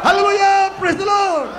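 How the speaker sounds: high, shouted praise; rallying preacher's cry of praise; loud shout. Shown as a demonstration. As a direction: shout it out to rouse the congregation. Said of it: "sumigaw ng malakas".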